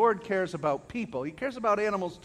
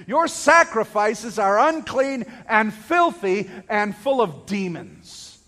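loud, measured denunciation dropping at the end; forceful declaration; 5 dB louder, slower than usual. Retold or imitated. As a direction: proclaim it hard, slowing on each charge. Preacher voices Jesus' message to the land.

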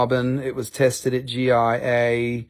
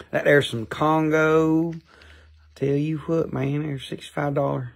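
put-on dude voice; 2 semitones higher than usual. Shown as a demonstration. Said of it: "Better stop talking like that".

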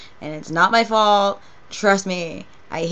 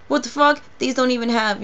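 higher imitated outburst; friend's rampage; 4 semitones higher than usual. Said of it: "goes on a fucking rampage".

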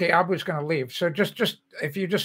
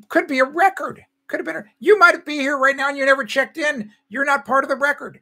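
excited teasing; 8 semitones higher, 5 dB louder than usual. Real, not acted. Gleeful teasing of viewers.

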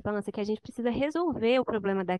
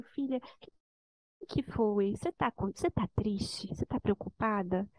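softer, gentle mother asking her daughter what's wrong; soft, tender question; 3 semitones lower, 5 dB quieter than usual. Retold or imitated. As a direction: ask it quietly, coaxing a sad child to talk. Mother asking worried daughter softly.

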